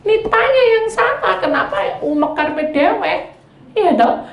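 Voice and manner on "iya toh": normal talking voice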